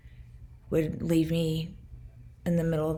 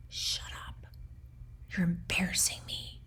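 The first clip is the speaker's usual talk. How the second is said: imitated whispered reproach; very quiet scolding; 2 semitones higher, 8 dB quieter than usual. Abuser berating her quietly in the museum, whispered scolding. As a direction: whisper it so only the companion hears. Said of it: "very quietly. He would look at me and say".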